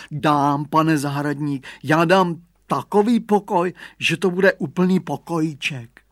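a touch of frightened gabbling; trembling babble. Acted. Caught thief pleading with the gardener, mildly frightened babble. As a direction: gabble the promise like a scared caught boy. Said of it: "Hugo se třásl jako osika a drmolil".

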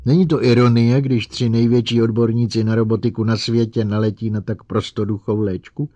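failing to sound normal; barely controlled hysteria. Acted. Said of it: "zkusila mluvit normálním hlasem, ale nešlo to". (s potlačovaným hysterickým smíchem)

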